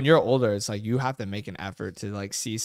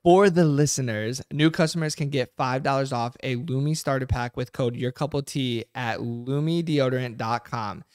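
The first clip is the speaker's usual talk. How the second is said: sponsor ad read. Real, not acted. Reads sponsor offer and code.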